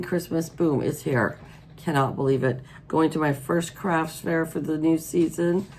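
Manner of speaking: hoarse, froggy voice from allergies. Real, not acted. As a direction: talk through a hoarse throat, like a frog in it. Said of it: "I sound like I swallowed a frog".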